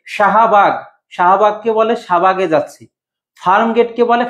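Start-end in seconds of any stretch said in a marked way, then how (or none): 2.0-2.8 শাহবাগে reduced to "shabage", middle h dropped; শাহবাগে run together as shabage; hasty-speech pronunciation. Shown as a demonstration. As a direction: swallow the h in শাহবাগে. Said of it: "দ্রুত উচ্চারণের জন্য".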